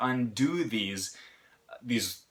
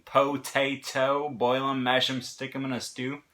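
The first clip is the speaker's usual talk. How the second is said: lightly voiced movie quote, "potato" spelled out syllable by syllable; light film quote; 2 semitones higher than usual. Teacher suddenly reminded of Lord of the Rings, light imitation. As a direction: lightly imitate the line, drawing out "po-tay-to" first. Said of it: "of Lord of the Rings all of a sudden".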